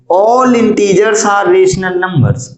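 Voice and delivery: slow and drawn out; slow dictation. Shown as a demonstration. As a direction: read it out slowly so they follow. Reads next statement aloud.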